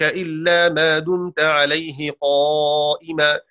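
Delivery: slow measured chanted recitation; Quran recitation. Acted. Teacher recites the verse to students in measured chant.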